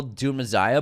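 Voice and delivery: "Messiah" with a z sound, muh-ZAI-uh; Boston accent pronunciation. Real, not acted. Host saying the Dune title his own way, "Messiah" with a z. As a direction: say "Messiah" with a buzzed z for the s. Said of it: "Mes-, Messiah".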